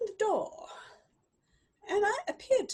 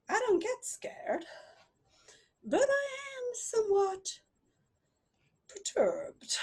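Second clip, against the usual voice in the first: hushed inner thought; 6 semitones higher than usual. A narrator's reading. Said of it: "I thought".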